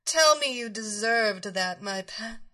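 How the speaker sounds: commanding mistress. Acted. Dominatrix commanding her pet.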